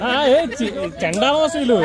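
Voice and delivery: disgusted. Real, not acted. Team losing, disgusted outburst.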